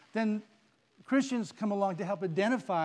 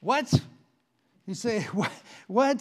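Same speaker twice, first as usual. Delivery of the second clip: shocked disbelief; 2 semitones higher, 4 dB louder than usual. Acted. Man hears he earned one point, loud shocked disbelief. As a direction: bark out stunned disbelief.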